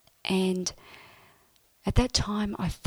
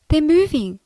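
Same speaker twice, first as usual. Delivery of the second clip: much higher and louder, amazed; thrilled cry; 8 semitones higher, 8 dB louder than usual. Retold or imitated. Telling Mum her toes are moving, thrilled. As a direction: burst out with it.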